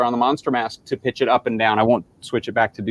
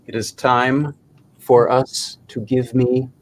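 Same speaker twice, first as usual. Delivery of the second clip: creepy monster voice; slower than usual. Acted. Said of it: "This is the voice changed version".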